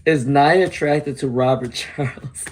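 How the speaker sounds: fighting back a giggle while reading; laughing. Real, not acted. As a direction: laugh slipping out before the name. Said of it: "I don't know why I'm laughing".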